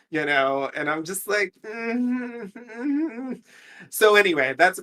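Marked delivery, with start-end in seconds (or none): 1.6-3.4 high wavering hum, acted out; uneasy wordless hum, rising in pitch; wordless reaction noise. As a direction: hum a drawn-out reaction in place of words. Acts out own uneasy reaction wordlessly.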